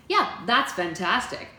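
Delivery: slow, loud, gushing delight; thrilled, drawn-out approval; excited. A narrator's reading. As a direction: stretch it out with enthusiasm. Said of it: "Bev clapped her hands excitedly".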